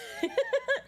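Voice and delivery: a squeaky delighted laugh; high burst of laughter. Real, not acted. Laughing at Michael Meowers.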